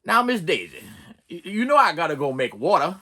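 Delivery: lightly voiced Morgan Freeman; Morgan Freeman impression. YouTuber imitating Morgan Freeman as the driver. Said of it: "my Morgan Freeman impression".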